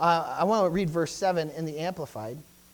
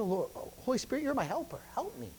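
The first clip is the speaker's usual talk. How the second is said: soft prayer; 3 semitones higher, 7 dB quieter than usual. Retold or imitated. Voicing his own prayer.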